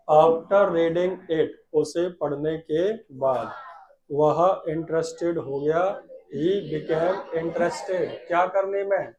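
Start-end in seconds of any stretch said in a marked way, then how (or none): 0.1-1.5 slow, drawn-out words; slow dictation. Shown as a demonstration. Teacher dictating slowly to the class. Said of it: "केवल धीमे बोलो". 6.3-8.1 slow, drawn-out words; slow dictation. Shown as a demonstration. Teacher dictating slowly to the class. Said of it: "केवल धीमे बोलो".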